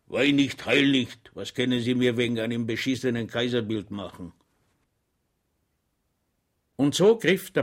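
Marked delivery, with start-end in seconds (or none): 0.1-4.3 loud, rough consoling; gruff comfort. Acted. Landlord gruffly comforting his weeping wife, loud. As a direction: scold her out of crying. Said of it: "in seiner sonderbaren Art tröstete".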